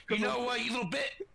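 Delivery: angry yell. Acted. Angry radio call to enemy.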